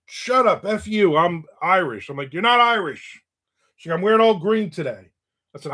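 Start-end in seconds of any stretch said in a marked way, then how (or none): 0.1-2.1 higher-pitched, mock-indignant retort; indignant mom. Mom insisting to her child that she's Irish, mock indignant. 2.3-3.2 high-pitched, exasperated contradiction; mock argumentative. Son contradicting mom about being Irish, mock exasperated. 4.0-5.1 higher-pitched mock defiance; defiant mom. Mom retorting to her child about Saint Patrick's Day, mock defiant. Mom's retort in retold quarrel.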